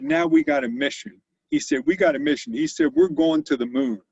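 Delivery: high, loud rallying call; excited rallying cry. Retold or imitated. Boss rousing his engineers with a mission, excited. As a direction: fire up the staff with a big mission.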